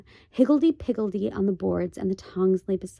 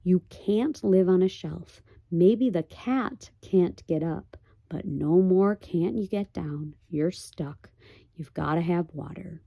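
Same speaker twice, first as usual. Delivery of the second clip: drain all feeling from it; expressionless voice. Acted. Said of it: "in the same expressionless voice".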